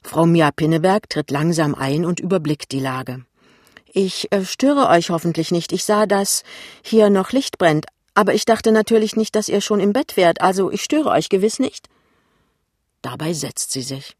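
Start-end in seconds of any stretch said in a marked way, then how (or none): 3.9-11.9 high-pitched mother, hesitant then chattering; apologetic mother's prattle, high and fairly loud; intruding mother. Acted. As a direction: voice a mother making excuses, raised pitch.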